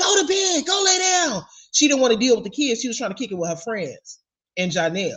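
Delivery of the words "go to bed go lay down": screamed, high-pitched and drawn out. Recounting how a woman talked to the kids, imitating someone screaming. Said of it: "Brianna was screaming".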